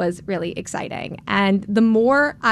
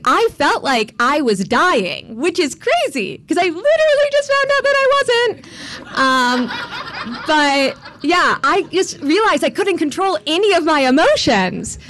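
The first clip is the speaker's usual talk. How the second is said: higher, louder, laughing through the words; laughing disbelief; 8 semitones higher, 4 dB louder than usual. Real, not acted. Telling the audience she felt like dying, laughing. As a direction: laugh at how absurd it was. Laughing at her own absurdity.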